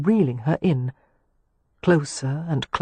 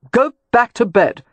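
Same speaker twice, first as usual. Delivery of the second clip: louder, a bit higher, calling up to her; calling back; 7 semitones higher, 5 dB louder than usual. A narrator's reading. To the woman at the window, a louder called reply. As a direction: call it across to the window, curt.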